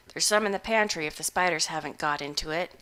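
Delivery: a hungover hermit shrugging it off; gruff old farmer. Acted. Butterbloom continues.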